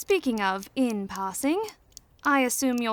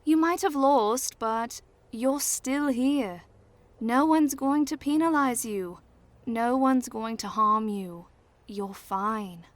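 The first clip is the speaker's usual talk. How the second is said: reassuring. Acted. Reassuring the boy after losing.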